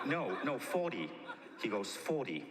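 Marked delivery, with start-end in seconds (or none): 0.0-1.1 higher-pitched corrective reply; retold correction. Speaker corrects Bob on the class size, higher-pitched retold correction. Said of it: "I go". 2.0-2.5 understated judgmental echo; judgy echo. Retold or imitated. Bob repeats the class size back to the speaker, understated judgy echo. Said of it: "he does the judgy face".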